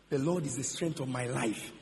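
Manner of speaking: low, soft scripture quote; meditative recitation. Acted. Quotes what Hagin caught in scripture.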